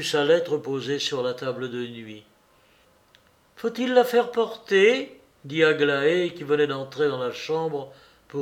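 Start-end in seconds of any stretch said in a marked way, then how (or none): 3.6-5.2 maid's question. Acted. Maid's question to her mistress.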